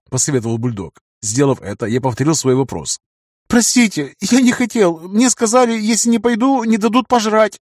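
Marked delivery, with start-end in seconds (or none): 3.5-7.6 high, quavering frightened plea; trembling voice. A narrator's reading. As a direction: excuse yourself in fear. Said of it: "дрожащим голосом сказал он".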